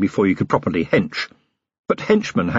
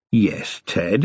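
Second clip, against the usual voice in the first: weary disgust. Acted. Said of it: "he said wearily".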